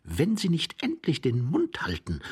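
understated seething interruption; through gritted teeth. A narrator's reading. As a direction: cut in with held-back irritation. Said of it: "unterbrach ihn der junge Mann zähneknirschend".

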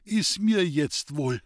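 put-on slow, content old man sinking back. Old man smiling back into his pillows, slow and content. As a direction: let it out slowly, at peace. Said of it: "Freundlich lächelnd fiel er in die Kissen zurück".

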